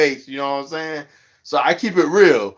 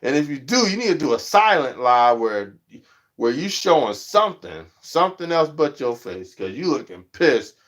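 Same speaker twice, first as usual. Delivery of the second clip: blunt advice. Retold or imitated. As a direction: tell them plainly to hide their face. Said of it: "I'm like".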